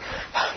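acted-out sigh of exhaustion; exhausted sigh. Preacher mimicking himself worn out after praying, exhausted sigh. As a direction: let out a spent puff of breath. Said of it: "you're just exhausted".

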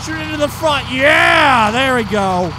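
high, loud gleeful shout; excited shout. Real, not acted. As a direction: yell it with glee. Firing at car.

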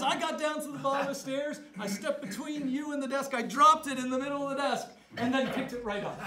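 can barely get the words out for laughing; laughing through it. Retold or imitated. Father's prank told, laughing.

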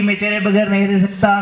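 mock wailing. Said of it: "जोर जोर से रोने लगे".

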